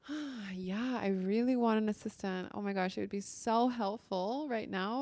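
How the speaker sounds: easy, open, hopeful wanting; calm excited want. Shown as a demonstration. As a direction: say it like it's already on its way. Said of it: "a very different vibration".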